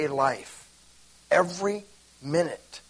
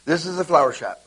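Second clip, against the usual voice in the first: flowery; 4 dB louder than usual. Shown as a demonstration. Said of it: "See how it's all flowery?".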